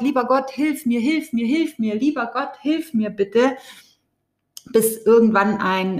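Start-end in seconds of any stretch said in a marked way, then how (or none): 0.0-3.6 a drowning man begging God, lightly acted; mock cry for help. Drowning man calling out to God, mild mock pleading cry. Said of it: "ruft immer ganz laut".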